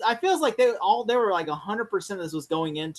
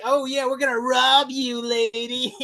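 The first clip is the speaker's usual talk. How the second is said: overacted henchman; 4 semitones higher, slower than usual. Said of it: "so overacted".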